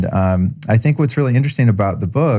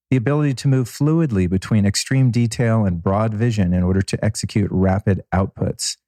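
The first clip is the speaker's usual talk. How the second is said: slightly softer, steady intro voice; podcast intro read; 3 dB quieter than usual. Acted. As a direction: read the episode intro like a host.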